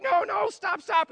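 high, mock-panicked "no, no, stop"; mock protest. Pastor acting the angry crowd, high mock protest. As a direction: play the crowd refusing to hear. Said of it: "And they're like".

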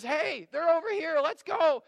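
loud, high excited call; excited crowd. Acted. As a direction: shout it like someone rallying a crowd. Crowd excitedly chasing after Jesus.

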